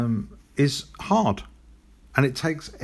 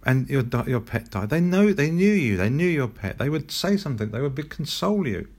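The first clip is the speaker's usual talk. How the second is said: retold indignant mum; 3 semitones higher than usual. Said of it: "She said".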